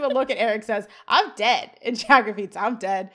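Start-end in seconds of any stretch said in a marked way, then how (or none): 1.1-1.7 louder, emphatic mock declaration; imitating a bold exclamation; retold exclamation. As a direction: announce it with a punch. Retold line, then repeated by Jack.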